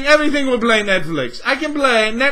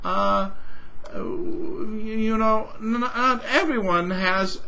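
soft, softer, patronising company voice; mock Microsoft rep; 6 dB quieter than usual. Mocking Microsoft to the viewer, a soft patronising rep. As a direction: play the oily corporate excuse-maker, hushed.

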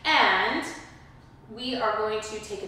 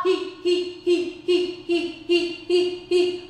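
panting like a dog; 7 semitones higher, 3 dB louder, slower than usual. Shown as a demonstration. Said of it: "So pant like a dog".

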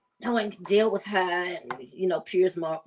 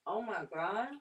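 hushed savoring; 10 dB quieter than usual. Real, not acted. Repeats it, savoring the bite.

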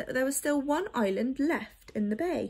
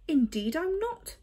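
sniffy; 6 semitones higher than usual. Acted. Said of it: "the bird sniffed".

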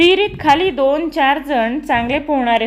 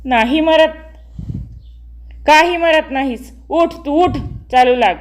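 angry scolding; 3 semitones higher than usual. Acted. Angry mother scolds her son who refuses to budge. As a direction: scold the stubborn boy and drive him on.

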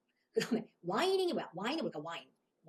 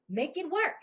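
firmly; 6 semitones higher, 3 dB louder, much slower than usual. Shown as a demonstration. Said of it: "단호하게".

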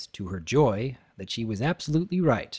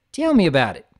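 panting; 4 semitones higher, 5 dB louder, faster than usual. Acted. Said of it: "Applejack panted".

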